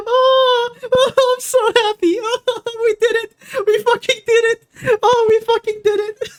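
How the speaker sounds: very high, wailing through joyful tears; real tearful elation; happy crying. Real, not acted. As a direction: cry with relief after a hard win. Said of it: "I'm fucking crying".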